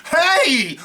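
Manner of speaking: sharp high loud bark; shotgun shout. Retold or imitated. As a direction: yell it as the gun comes out. Man pulls out the shotgun.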